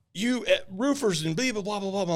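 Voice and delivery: high-pitched mock rant; angry homeowner. Roofer imitating an angry lady at her door, mock angry. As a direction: imitate a ranting woman trailing into gibberish. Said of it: "Why are you so angry?".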